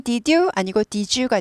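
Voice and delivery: "did you" blended into "디쥬"; 구개음화 did you; palatalized did you. Shown as a demonstration. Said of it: "국외음화라고 하죠".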